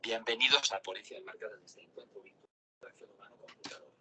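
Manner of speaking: robotic text-to-speech voice; synthetic voice. Acted. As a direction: read it like a computer voice. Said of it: "herramienta llamada Voz Sintética suministrada por Amazon".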